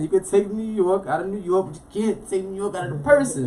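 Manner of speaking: proud declaration. Real, not acted. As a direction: declare it with swelling pride.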